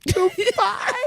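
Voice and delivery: Big Red impression. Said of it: "like Big Red in Five Heartbeats".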